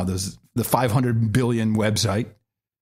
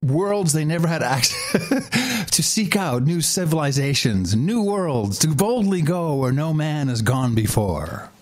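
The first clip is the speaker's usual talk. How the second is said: slow, high grand announcer; Star Trek narrator; 4 semitones higher than usual. Pretend. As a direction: intone it like a space show opening. Turns speech into Star Trek intro.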